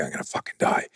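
whispered dread of losing the fight; panicked whisper. Retold or imitated. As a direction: let fear hiss out under the breath. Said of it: "Are you going".

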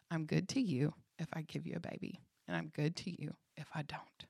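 soft, tender reassurance; kindly. Retold or imitated. The Lord to a woman wanting a baby, soft and kindly. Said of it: "he so kindly goes".

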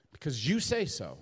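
"you" punched above the other words; stress on YOU. Shown as a demonstration. Struggling spouse yielding to God's word, stress on "you". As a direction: hit "you" firmly. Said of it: "Emphasis on you".

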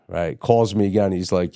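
ordinary delivery

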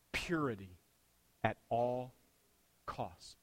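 breathy hush, falling away; whispered. Acted. Pastor hushing to the congregation, whispered. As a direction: lean in and whisper the word like a secret. Pastor urging listeners toward purity.

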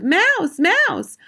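high, loud alarm cry; shouts. A narrator's reading. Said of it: "There were no shouts of".

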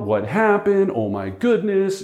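high, mock-panicked homeowner; freaked-out owner. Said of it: "She's freaking out".

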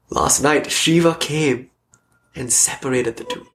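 very slow and hushed, savouring each word; reverent, slowed-down reciting of the quote; slow reverent repeat. Shown as a demonstration. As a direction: linger on it like a sacred line. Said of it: "So beautiful".

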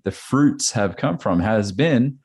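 ordinary delivery

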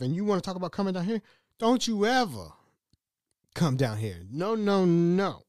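high-pitched exasperated telling-off; indignant scolding. Retold or imitated. Man refusing woman's visit after bad trip, indignant. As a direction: lay down the law in mock outrage. Acted scolding reply to her message.

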